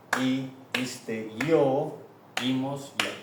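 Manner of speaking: memory drill in a steady beat; rhythmic recitation. Shown as a demonstration. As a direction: recite each ending on a clap. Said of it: "we can clap".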